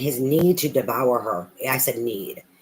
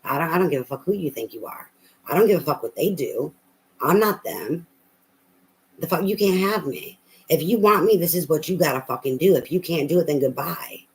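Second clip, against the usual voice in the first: defiant queen voice; 3 semitones higher than usual. Retold or imitated. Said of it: "she's like".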